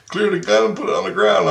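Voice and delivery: high, loud quoted command; imitated firm order. Man telling the teller to unload the weapon, commanding.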